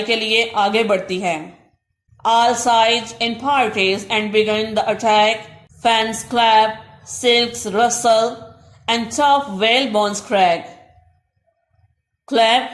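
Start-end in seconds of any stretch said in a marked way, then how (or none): 2.3-10.6 slow, measured verse reading; slow poem recitation. Acted. Teacher reading verse slowly to Urdu-speaking students. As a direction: read each word of the couplet slowly.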